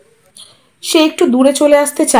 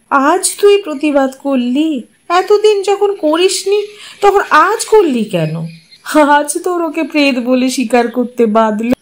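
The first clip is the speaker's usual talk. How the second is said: a mother rebuking her son, hurt and rising; hurt reproach; 4 semitones higher than usual. Acted.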